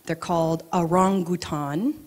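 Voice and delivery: orangutan with a clear final t; careful pronunciation. Shown as a demonstration. Teaching the audience the proper pronunciation. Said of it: "That is the proper pronunciation".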